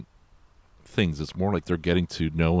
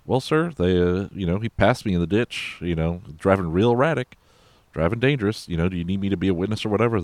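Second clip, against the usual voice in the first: plain Southern talk; 3 semitones higher than usual. Retold or imitated. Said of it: "he talks real plainly, kinda Southern".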